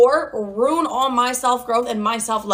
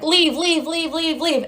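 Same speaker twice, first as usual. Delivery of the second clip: nagging chorus; 5 semitones higher, slower than usual. Retold or imitated. Imitates everyone urging her to leave.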